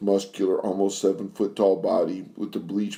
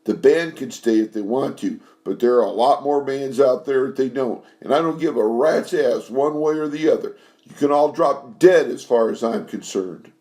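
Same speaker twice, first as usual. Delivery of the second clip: furious dismissal; 5 semitones higher than usual. Acted. Furious singer throws out her lover.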